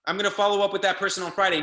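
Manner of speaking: quick whiny-excuse parody of a procrastinator; mocking excuse-maker. Coach mocks a member putting it off till tomorrow, fast and mocking.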